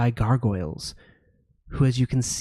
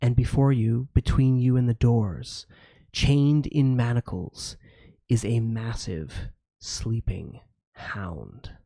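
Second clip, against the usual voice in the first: game master narration. A narrator's reading. GM describes the dungeon.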